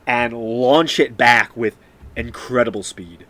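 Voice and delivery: animated, punchy combat narration; game master's scene setting. Acted. Game master describing the shot to a player, animated narration. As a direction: narrate the action with emphatic force.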